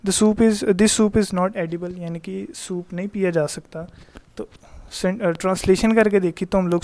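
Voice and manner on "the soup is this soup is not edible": slow, careful read-aloud of the example; teacher dictating an example. Shown as a demonstration. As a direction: read the sentence out slowly for the class. Teacher rereads example slowly.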